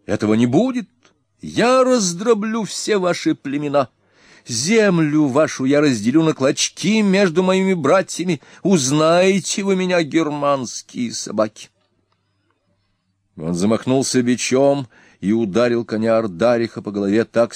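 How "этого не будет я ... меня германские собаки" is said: 1 raging threats. A narrator's reading. Ernak raging at Germans.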